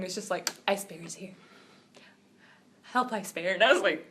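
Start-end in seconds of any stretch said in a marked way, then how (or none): 0.7-3.5 lower, quiet monotone cry for help; deadpan calm call for help. Retold or imitated. Girl quoting the trapped cartoon bear, understated and flat. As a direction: ask for help as if bored. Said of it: "he didn't yell or anything".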